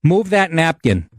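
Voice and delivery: slow, curt order. Retold or imitated. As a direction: bark it like a rude waitress. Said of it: "She goes to my buddy in this tone".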